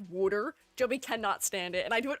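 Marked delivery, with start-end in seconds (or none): 0.0-0.5 "wooder" for water, with a d in the middle. Shown as a demonstration. Streamer teasing her friend with her way of saying "wooder". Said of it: "say water is wooder".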